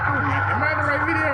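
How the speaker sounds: high, loud dismay; suddenly unsure it's the right clip; startled surprise. Real, not acted. To viewers, noticing the wrong video playing: startled surprise.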